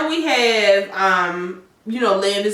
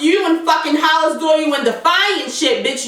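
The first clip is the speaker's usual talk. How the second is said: louder, higher fired-up scolding at the screen; heated rant; 6 semitones higher, 3 dB louder than usual. Pretend. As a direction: go off on her like a fed-up friend. Heated rant at character, both hosts.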